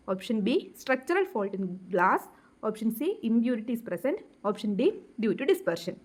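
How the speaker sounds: reads each option very slowly and evenly; slow option reading. Acted. Teacher reading answer choices to students, very slow dictation. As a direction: spell out the choices slowly for the class.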